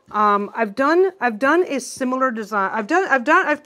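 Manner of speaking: stumbling over the words from excitement; stuttering. Real, not acted. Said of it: "and now I'm stuttering".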